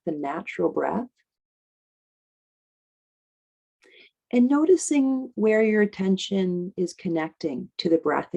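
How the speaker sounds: unhurried guidance with long pauses; guided meditation. Acted. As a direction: ease them into the breath, leaving space between phrases.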